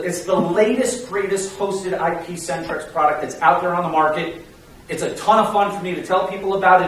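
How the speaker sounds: confident sales pitch, driving straight on; conviction. Shown as a demonstration. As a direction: pitch it with assurance, no hedging. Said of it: "Words of conviction".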